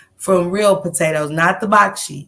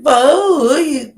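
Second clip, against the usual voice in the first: high, loud, disbelieving repeat; loud baffled who; loud incredulous for who; 5 semitones higher, 5 dB louder, slower than usual. Retold or imitated. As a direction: shout the question in disbelief. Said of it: "like, I said".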